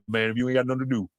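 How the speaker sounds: lightly voiced Southern grandma, low; a hint of a country grandmother. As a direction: imitate a grandma laying down advice, low. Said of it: "Like my grandma said".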